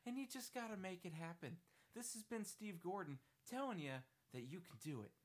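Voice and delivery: lightly voiced upbeat Steve Gordon; Steve Gordon impression. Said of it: "my legitimate Steve Gordon impression".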